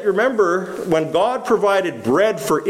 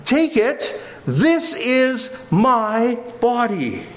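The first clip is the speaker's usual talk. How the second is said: Jesus' words, solemn; 5 semitones higher, much slower than usual. Acted. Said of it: "But now Jesus says".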